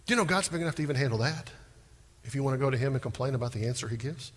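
ordinary talk

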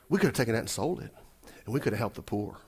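soft, low piety; mock spiritual. Disciples claim they'd have helped the poor, falsely pious. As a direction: say it quietly, as if it were holy. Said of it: "That sounds so spiritual".

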